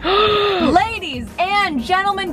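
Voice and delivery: game show host. Acted.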